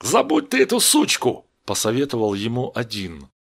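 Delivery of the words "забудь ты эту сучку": high-pitched, jeering smirk; smirking advice. A narrator's reading. Gang member advises Steve to forget her, smirking. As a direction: toss it out with a smirk. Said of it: "ухмыляясь".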